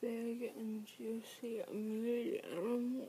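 talking through a mouthful; words muffled by food; mouth full. Acted. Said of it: "not to talk with your mouth full".

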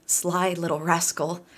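chuckling. Acted. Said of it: "she chuckled".

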